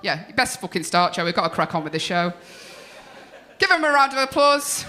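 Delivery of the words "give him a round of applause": rally the crowd with a shout; host shouting. Real, not acted. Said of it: "host hyping crowd".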